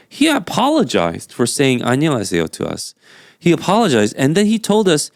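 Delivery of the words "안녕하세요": put-on English accent. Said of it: "I'm saying that right now in an English accent".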